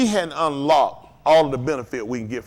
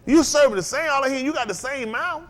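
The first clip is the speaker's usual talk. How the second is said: high, loud, challenging the crowd; fiery preaching; 9 semitones higher, 4 dB louder than usual. Real, not acted. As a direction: hit them with it, fired up.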